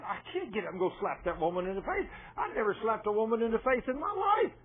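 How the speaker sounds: incredulous objection climbing in pitch; retold protest. Man telling the Lord he can't slap her, imitated rising protest. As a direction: build to a high mock-indignant finish.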